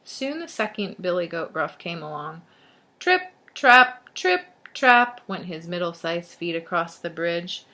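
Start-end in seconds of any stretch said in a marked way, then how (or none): 3.0-5.2 loud, evenly spaced stomps in words; firm storybook trip-trap; marching footsteps. A narrator's reading. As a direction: punch each word like a footfall. Middle-sized goat's footsteps.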